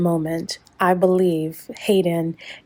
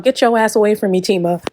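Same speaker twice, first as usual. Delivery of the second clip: quick, slightly raised imitation of yelling; mock yell; 3 semitones higher, 4 dB louder, faster than usual. Recapper imitating Hayden fleeing Tima on crutches, mock yell. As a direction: imitate someone yelling to be left alone, only mildly loud. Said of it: "he's yelling out".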